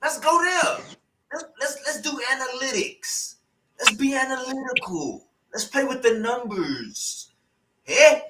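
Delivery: a put-on street preacher voice, ranting "eh?"; mock activist rant. Streamer parodying a debate speaker with a put-on ranting voice. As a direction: play a heated hood orator asking questions.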